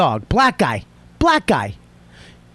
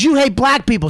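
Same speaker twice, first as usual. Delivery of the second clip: higher-pitched mock yell; retold screaming accusation; 5 semitones higher than usual. Man retelling a stranger's accusation in the dog row, mild mock scream. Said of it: "Starts screaming at the top of his fucking lungs".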